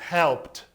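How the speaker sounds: "helped" in one syllable ending in t; "helped" pronounced helpt. Shown as a demonstration. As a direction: clip "helped" short with a crisp t. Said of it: "com som de T".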